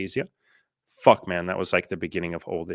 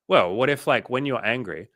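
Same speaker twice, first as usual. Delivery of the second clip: higher-pitched, lightly acted psychologist suggestion; imitated therapist; 5 semitones higher, 4 dB louder than usual. Therapist suggesting a pause to an angry client, lightly imitated. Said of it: "when I first went to therapy, a psychologist".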